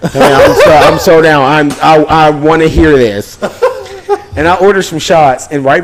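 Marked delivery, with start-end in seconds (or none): 0.1-3.4 laughing. Retold or imitated. Eager drunk retold reply, laughing. 3.4-4.3 squealing laugh; high laugh. Real, not acted. Laughs high after quote.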